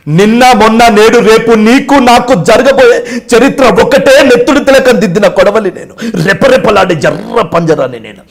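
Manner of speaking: loud, high, slow heroic declamation; Sai Kumar. Retold or imitated. Flashback hero declaring the history to come, loud slow declamation. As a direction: hammer out each phrase like a drum-backed film hero. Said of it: "డప్పు కొట్టిస్తూ ఈ voice చెప్పేటోని".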